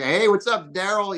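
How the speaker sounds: imitated southern accent, high and loud; Daryl. Team boss introduces himself by phone, imitated southern accent. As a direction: put on a hearty southern phone greeting. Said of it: "like, typical Daryl accent".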